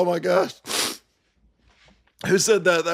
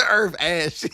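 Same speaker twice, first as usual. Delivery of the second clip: laughing. Real, not acted. Reading a chat joke, laughing.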